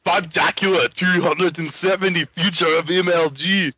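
a hint of a heavy Russian-style accent; lightly put-on Heavy accent reading the title; Team Fortress Heavy voice. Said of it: "like the heavy from Team Fortress".

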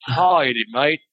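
reluctant, brief stab at an Australian accent; attempted Australian accent. Shown as a demonstration. Coaxed by co-hosts into it, attempted Australian accent. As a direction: try a token Australian greeting. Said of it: "I can't do Australian accents".

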